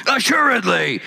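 "Assuredly" said high and firm; strong word. Shown as a demonstration. Preacher repeating the word for the congregation, firm. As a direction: punch out "Assuredly" with weight. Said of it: "It's a strong word".

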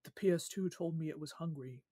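put-on deadpan it like a Children of the Corn kid; dead flat voice. Retelling what the creepy kid said, in a dead flat voice. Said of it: "says in a dead, flat voice".

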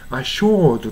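"assured" as "a-shawd"; long aw in "assured", no r; non-rhotic "assured"; British-style assured. Shown as a demonstration. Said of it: "と発音してるんですね".

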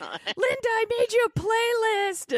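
very high, excited squeal; cartoon cat voice. Cats greeting their crush the babysitter, high squealed cat voice. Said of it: "they're all like".

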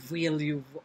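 accidental Russian accent, low. Shown as a demonstration. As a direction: slip briefly into a Russian accent. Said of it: "oh, that's Russian, sorry".

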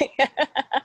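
laughing. Acted. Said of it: "Trevor just laughed and laughed".

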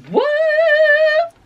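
very high astonished squeak; squeaky what. Real, not acted. Vlogger amazed at the dark camera, high squeak. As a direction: squeak it up in disbelief.

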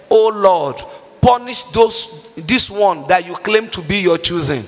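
rising preacher's cry, building to a shout; fervent preaching prayer. Real, not acted. Preacher calling on God to punish the sinner, building to a shout. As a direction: pray it out hard over the congregation.

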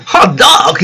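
lively exclamation as a casino boss; exclaiming. A narrator's reading. King Dice at the casino, exclaiming. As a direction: exclaim it with storybook gusto. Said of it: "exclaimed King Dice".

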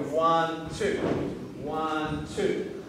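ONE drawn out, then TWO as a separate beat; two syllable count. Shown as a demonstration. Teacher showing students a split technique, ONE and TWO dragged apart. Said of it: "You've made it a two syllable technique".

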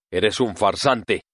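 slow, lightly whiny accusation; complaining tone. Acted. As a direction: drag it out as a mild complaint. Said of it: "en tono quejoso".

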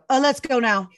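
high, loud burst of excitement; sudden eagerness. Retold or imitated. Wife to husband on hearing dog's name, suddenly eager. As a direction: jump in, raring to go.

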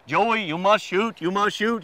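slow South African accent imitation; lightly imitating a South African guide. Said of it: "in his little South African accent".

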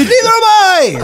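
very high, slow put-on voice; squeaky deadpan. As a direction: drop it slowly in a squeak. Friend's deadpan reply.

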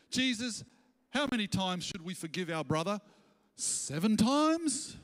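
Peter asking. Retold or imitated. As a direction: stretch out seven times proudly. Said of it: "Peter come to Jesus once and said".

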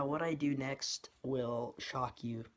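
slow, teasing clickbait announcer; clickbait video narrator. Pretend. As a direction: drag it out like a clickbait teaser. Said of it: "clickbait line mocking old video".

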